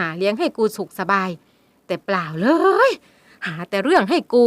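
loud bitter tirade; mother vents at her daughter; long angry rant. Acted. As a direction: pour out years of resentment. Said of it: "ร่ายยาว ราวกับต้องการระบายความอัดอั้น".

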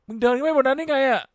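ร้องถามเสียงสูงดังด้วยความตกใจ; ตะโกนถามอย่างไม่อยากเชื่อ; ตกใจ. Real, not acted. ตกใจกับตัวละครในเกม. (ตกใจเห็นตัวละครขึ้นไปข้างบน เสียงสูงดัง)

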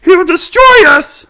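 frightened loud warning; alarmed cry. Acted. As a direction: drag out the dread. Panic about the villain's threat.

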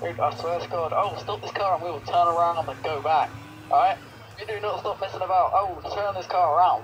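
stern parent threatening from the driver's seat; loud, fed-up dad voice; refereeing kids in car. Pretend. Mock parent threatening to turn car.

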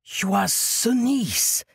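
proud exclaim. Acted. Monk naming Desdemonia's homeland, proud exclaim. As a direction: announce it like a solved riddle. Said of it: "exclaimed in a proud voice".

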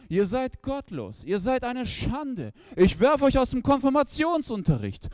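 put-on a priest berating two boys; scolding priest. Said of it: "er schreit uns an". (Pfarrer schimpft, langsam, steigernd)

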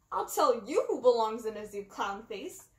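loud angry retort from Hercule; Hercule shouting. A narrator's reading. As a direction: shout it back in his face. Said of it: "Hercule shouted".

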